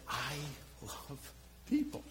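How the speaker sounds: softly breathed, almost whispered; hushed. Real, not acted. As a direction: drop to a near-whisper on love people. Confessional hush mid-sermon.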